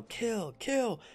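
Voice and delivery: rising high shout, building on each kill; battle yell. Pretend. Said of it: "And you yell".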